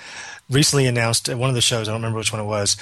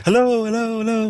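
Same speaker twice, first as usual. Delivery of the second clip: digital echo; 12 semitones higher than usual. Retold or imitated. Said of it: "cool little echo effect".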